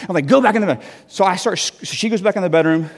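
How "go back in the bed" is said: raised, insistent mock command; retold exasperated order. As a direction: send them back to bed insistently. Ordering wife back to bed.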